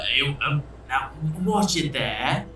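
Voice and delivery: put-on a touch of Australian accent. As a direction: lean lightly into an Australian accent. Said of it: "a bit of an Australian accent".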